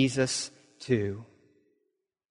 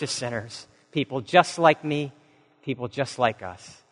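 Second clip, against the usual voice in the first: prayer. Real, not acted. Pastor leads closing prayer.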